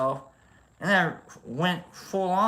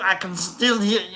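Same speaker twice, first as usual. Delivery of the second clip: Arnold; 3 semitones higher than usual. Pretend. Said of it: "a little Russian too".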